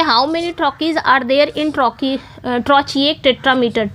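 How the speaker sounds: reads the question very slowly, word by word; slow question reading. Shown as a demonstration. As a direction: spell the question out slowly for the class. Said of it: "reading out the quiz question". (प्रश्न को बहुत धीरे पढ़ना)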